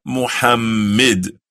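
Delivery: Muhammad said with a weak final i; the wrong Muhammad; wrong pronunciation. Shown as a demonstration.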